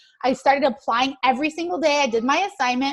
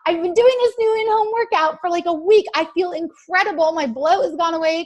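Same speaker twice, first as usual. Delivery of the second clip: excited post; 3 semitones higher than usual. Retold or imitated. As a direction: sell it like a thrilled new convert. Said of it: "That's how I said it".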